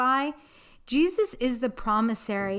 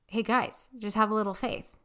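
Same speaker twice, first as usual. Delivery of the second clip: calm reassurance. Acted. Jesus voiced calmly.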